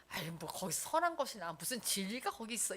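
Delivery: quietly scoffing, as if imitating a sceptic; dismissive. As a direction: imitate townsfolk brushing it off. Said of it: "이렇게 무시하는 동네가".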